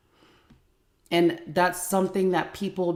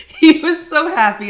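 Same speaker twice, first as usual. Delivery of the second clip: sarcastic; 11 semitones higher, 14 dB louder than usual. Real, not acted. Sarcasm about the sulking son.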